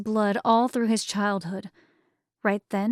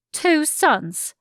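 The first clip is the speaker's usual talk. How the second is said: higher, cursing disbelief; like a curse; 7 semitones higher, 4 dB louder than usual. A narrator's reading. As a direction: spit it out like a curse. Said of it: "It sounded far more like a curse".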